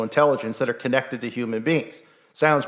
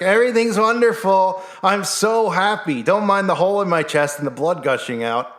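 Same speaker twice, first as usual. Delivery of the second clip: mock denial cheer; 6 semitones higher than usual. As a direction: chirp it while bleeding, in total denial. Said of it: "walking around being like".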